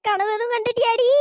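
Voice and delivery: high, loud, incredulous questions; shocked disbelief. Acted. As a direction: exclaim at news of a possession. Shock at news of possession. (நம்ப முடியாம அதிர்ச்சியா கேக்குறது)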